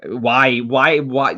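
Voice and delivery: emphatic repeated why. Real, not acted. Ranting to viewers about headlines, loud insistent why. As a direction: hammer each why at the press.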